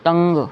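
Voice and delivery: "तंग" with a clear ng; "तंग" sounded out as tang. Shown as a demonstration. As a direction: hold the ng in "तंग". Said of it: "ये सभी अंग की आवाज़ है".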